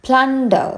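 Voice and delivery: crisp teaching take of "പ്ലണ്ടർ", starting high; pronunciation demo. Shown as a demonstration. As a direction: model "പ്ലണ്ടർ" clearly for learners. Teacher models a new word.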